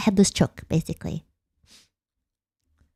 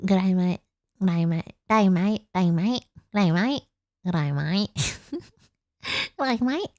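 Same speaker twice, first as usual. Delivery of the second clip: repeated Australian greeting; 3 semitones lower, slower than usual. Shown as a demonstration. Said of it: "practising greeting".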